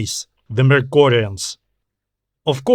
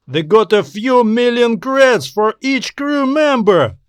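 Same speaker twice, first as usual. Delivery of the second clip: a lightly voiced space salvager, higher and eager, dreaming of fame; excited Atterston; 6 semitones higher than usual. Partner boasting to Nissen about media fame, higher and eager. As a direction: talk up the glory like a greedy partner getting carried away.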